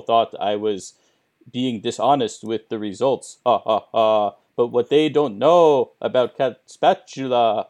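spooky Count voice with "ha, ha, ha"; lightly voiced vampire count; low haunting voice. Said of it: "You sound spooky".

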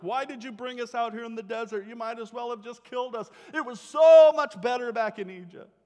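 mock whine that climbs to a loud complaining cry; whining complaint. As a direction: play the grumbling crowd, loudest at the end. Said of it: "crying and complaining in Moses' presence".

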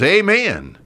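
high-pitched call from the pews; congregant's amen. Acted. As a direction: answer the preacher with a ringing amen. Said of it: "some person says".

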